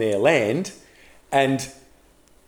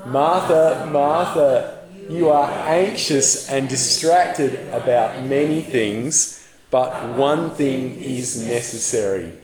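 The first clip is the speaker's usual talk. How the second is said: gentle rebuke; slower than usual. Shown as a demonstration. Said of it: "Would you say them out loud with me?".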